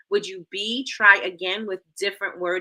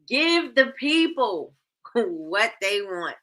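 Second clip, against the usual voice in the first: laughing; slower than usual. Real, not acted. Repeats chat line laughing.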